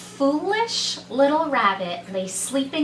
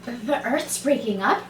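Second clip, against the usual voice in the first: confused. Acted.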